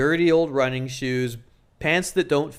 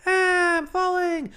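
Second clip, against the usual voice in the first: panicked falling scream; slower than usual. Shown as a demonstration. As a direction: yell as if dropping off a cliff. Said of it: "you'd be like".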